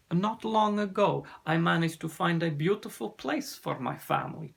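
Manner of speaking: put-on accented storyteller, building with the struggle; sea serpent recounting. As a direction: recount the loss in a lightly voiced foreign accent. Ossian tells his story.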